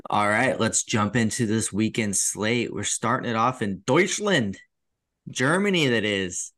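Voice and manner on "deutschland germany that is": lightly put-on Irish accent, pitch lifting on Germany; a touch of mock Irish lilt. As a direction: play at an Irish accent for the place names. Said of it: "saying it with an Irish accent".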